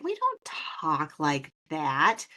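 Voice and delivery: slow, drawn-out denial; mock protest. Host retelling her reply to accent teasing, slow mock protest. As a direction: stretch the words in protest. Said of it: "And I'm like".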